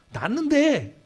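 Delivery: high, loud mock echo of the promise; mocking the faith-healers. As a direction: parrot them with a scoff. Mocking what prayer people say. (기도하는 사람들 말을 비꼬듯 높게)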